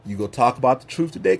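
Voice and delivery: low and fast, softened rewording; God's voice rephrased low and fast; rephrased God's question. Retold or imitated. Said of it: "I mean".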